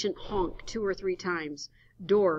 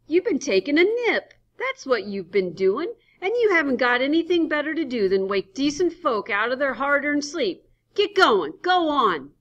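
put-on angry old man; 9 semitones higher, 11 dB louder than usual. Henry chasing Adams off.

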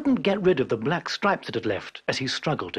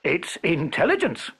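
wry; 2 semitones higher than usual. Acted. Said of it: "said the peasant wryly".

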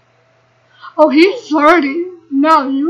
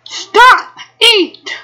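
high, loud command to stop; sharp shout; 5 semitones higher, 4 dB louder than usual. Real, not acted. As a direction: yell it at the screen. Yelling at Sims.

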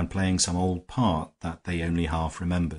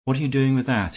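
harsh, hoarse challenge, louder and higher; 7 semitones higher, 5 dB louder, faster than usual. Acted. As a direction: bark the question harshly. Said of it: "harshly and almost hoarsely".

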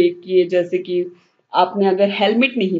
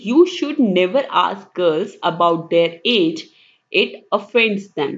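very slow, careful reading of an English sentence; slow example reading; 2 semitones lower, much slower than usual. Acted. Teacher reading example sentence to students, slowly. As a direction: read the example out word by word.

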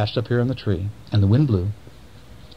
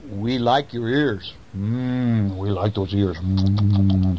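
bees voice; 3 semitones lower, much slower than usual. Acted. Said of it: "But the bees said".

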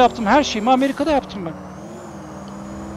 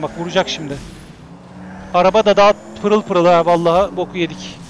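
usual speaking voice

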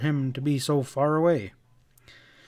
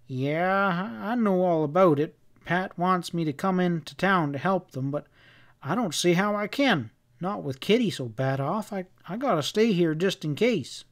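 folksy worried Westerner, a little higher; hint of a rustic, distrustful husband; lightly played fretful cowboy; lightly voiced Sam-type cowhand; 4 semitones higher than usual.

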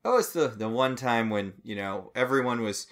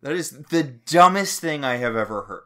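louder outraged repeat; 4 semitones higher, 8 dB louder than usual. Real, not acted. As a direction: spell it out in disbelief.

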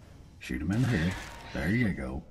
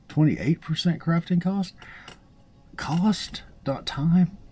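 excited; 13 semitones higher, 7 dB louder, slower than usual. Real, not acted. Excited over game reward.

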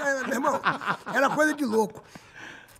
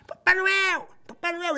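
calling out; 8 semitones higher, much slower than usual. Retold or imitated. Calling out to Santa again.

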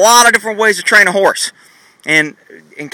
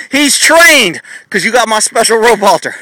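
higher, hyped sales pitch; mock salesman pitch; 4 semitones higher than usual. Trainer parodying a gimmick seller to viewers, hyped pitch. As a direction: sell it like a cheesy infomercial. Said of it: "I'm just making a stupid example".

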